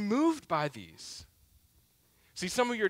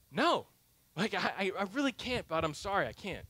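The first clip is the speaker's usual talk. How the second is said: fading softer to almost nothing; too drained to say no properly; tired refusal; 7 dB quieter than usual. Retold or imitated. Worn-out dad refuses son.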